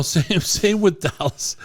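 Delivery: hoarse voice giving out mid-sentence; raspy cracking voice. Real, not acted. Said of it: "He, he aged about fifty years in one moment there".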